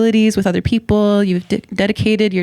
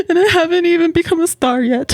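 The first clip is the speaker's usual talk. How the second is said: high, quick, hammed-up whine; mock despair; 9 semitones higher, faster than usual. Kidding the host about not being famous, mock despair. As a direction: lament it like a joking drama queen. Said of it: "Just kidding".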